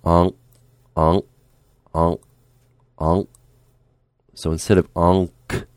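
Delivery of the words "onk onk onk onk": onk with the k held, not released; unreleased k. Shown as a demonstration. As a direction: say onk and stop the air on the k. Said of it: "So we're gonna go".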